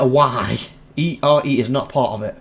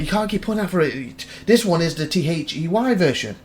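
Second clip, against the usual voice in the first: higher-pitched imitation of mum scolding; mum correcting; 4 semitones higher than usual. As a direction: imitate a mum putting you right. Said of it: "and Mum's like".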